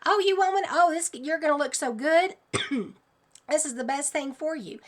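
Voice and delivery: high, cheery sales pitch; mock-friendly doctor offering injections; doctors hawking shots. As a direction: peddle it like a carnival barker. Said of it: "he's walking around going".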